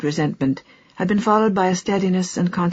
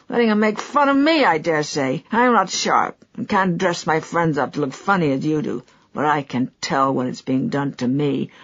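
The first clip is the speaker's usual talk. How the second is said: aggrieved Trenor. Acted. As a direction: vent the long grievance.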